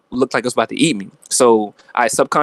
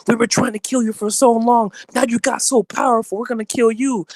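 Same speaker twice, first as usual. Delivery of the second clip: mock reptilian alien voice, pitched way higher; a hammed-up lizard villain vowing to kill, high and strained; much higher mock creature threat; imitating a Draco reptilian; 11 semitones higher than usual. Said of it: "the Draco reptilian was like".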